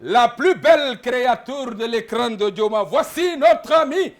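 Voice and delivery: loud, slow host introduction; announcer call. Real, not acted. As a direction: hype up the star's entrance. Host announces the star presenter. (annonce enthousiaste de présentateur)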